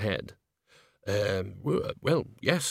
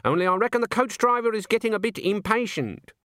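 muffled voice; 11 semitones higher than usual. Acted. Nanny voiced from bushes.

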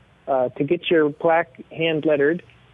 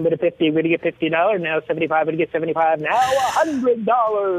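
auctioneer. Acted. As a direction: call the bids like an auctioneer. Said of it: "if you'd have an auctioneer's voice".

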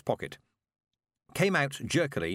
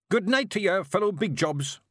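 loud Scottish roar, higher; booming Scots drunk; 9 semitones higher, 4 dB louder than usual. Acted. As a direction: drunk bellowing greeting from the door. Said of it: "roared a figure".

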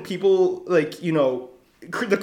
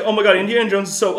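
mocking fan voice; 4 semitones higher, 4 dB louder, much faster than usual. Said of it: "everyone's like".

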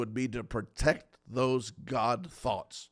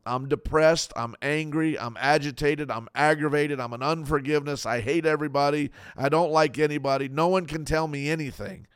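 mock bitter rant; 3 dB louder than usual. Voicing a bitter person.

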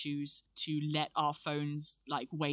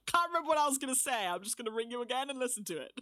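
excited; 7 semitones higher, faster than usual. Retold or imitated. Retold dazed self-quote, fast.

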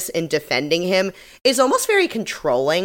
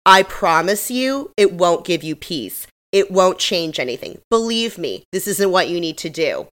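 measured, slightly slowed talking-down; condescending. Retold or imitated. Jennifer speaking down to the two women, mildly condescending. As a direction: lecture them as if you know best. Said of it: "She's speaking down to them. She's being condescending".

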